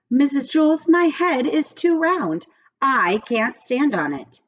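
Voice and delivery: put-on high, pleading boy voice; young John pleading. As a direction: plead with the teacher as a small boy. Child John protesting to teacher.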